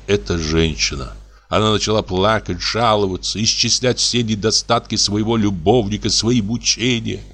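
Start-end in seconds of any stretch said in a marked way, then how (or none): none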